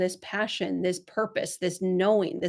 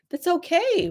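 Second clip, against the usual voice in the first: that's okay lifted higher, falling gently on okay; reassuring repeat; 6 semitones higher than usual. Shown as a demonstration. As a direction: lift it to comfort her. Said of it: "and that's okay".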